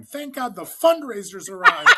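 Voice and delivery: high, loud cheer breaking into laughter; joking hammed-up hooray, laughing; laughing mock cheer. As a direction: cheer it like a delighted crowd, laughing through it.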